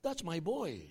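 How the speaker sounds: a hint of a gloating devil, chuckling; lightly voiced devil, proud and amused; pleased Satan. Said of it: "sabi naman ni Satanas".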